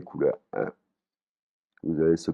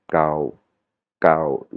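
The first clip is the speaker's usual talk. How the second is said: "Kao" kept low and even; 2 semitones lower than usual. Shown as a demonstration. Teacher gives the word for something old, low "Kao". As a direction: sink "Kao" below the talking pitch. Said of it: "avec une intonation basse".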